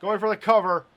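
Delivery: loud, high count of the cover; excited match call. Real, not acted. Commentator counting a pinfall attempt, excited match call. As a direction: call the near fall at full voice. Calling a near fall live.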